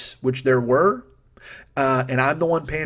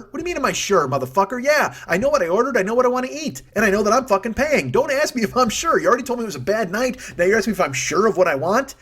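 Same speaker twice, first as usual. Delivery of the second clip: high-pitched, incredulous acted rant; indignant retort; 8 semitones higher than usual. Diner imagining telling off the doubting waiter, indignant retort. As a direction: throw the question back, outraged and insistent.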